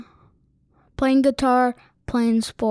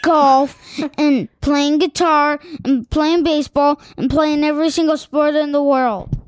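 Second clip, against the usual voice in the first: excited; 3 semitones higher, 5 dB louder than usual. Real, not acted. Excited listing of favourite things.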